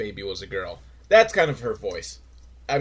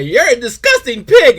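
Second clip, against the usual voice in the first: shouting much higher and louder; angry shout; 12 semitones higher, 13 dB louder than usual. Retold or imitated. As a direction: yell it in disgust. Angry caller hang-up quote.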